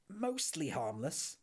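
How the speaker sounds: slow, incredulous "Mostly harmless?" with a mild mock shout. Arthur shouting back at Ford in disbelief. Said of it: "shouted Arthur".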